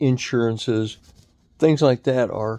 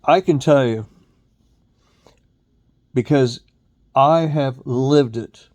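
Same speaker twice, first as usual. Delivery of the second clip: raised, emphatic ranting voice; heated rant; 5 dB louder than usual. Real, not acted. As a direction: hammer the point home, loud. Ranting about boomer blame.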